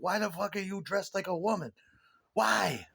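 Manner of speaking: confrontational. Retold or imitated. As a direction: act out an outraged heckler confronting someone. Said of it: "violent and confrontational".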